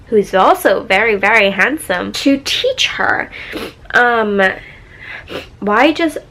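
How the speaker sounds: talking through a stuffy nose; blocked-up nose, slightly stuffy. Real, not acted. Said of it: "why do I sound like a little stuffy-nosed".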